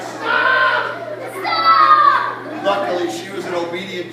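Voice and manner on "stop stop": loud, high acted yell; hammed-up shout of alarm; crying out. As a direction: yell for it to stop. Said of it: "Mom and Dad cried".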